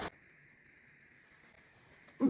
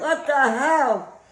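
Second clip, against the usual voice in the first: mouth burning from spicy food; slower than usual. Real, not acted. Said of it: "My mouth is burning".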